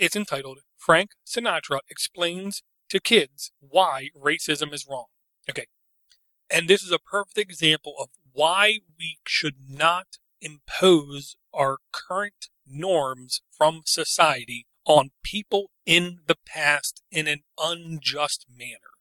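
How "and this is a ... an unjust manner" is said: very slow, deliberate, word-by-word delivery. Introducing a video to the audience, speaking very slowly. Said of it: "I said that very slowly".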